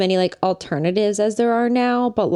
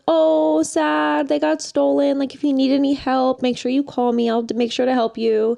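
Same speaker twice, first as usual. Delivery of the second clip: fake sympathy; 3 semitones higher than usual.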